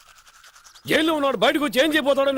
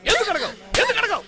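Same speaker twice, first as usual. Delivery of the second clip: from firm to much higher insistent pressing; rising demand; 7 semitones higher than usual. Acted. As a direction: push harder each time. Father demands apology repeatedly. (కోపం పెరుగుతూ అడగడం)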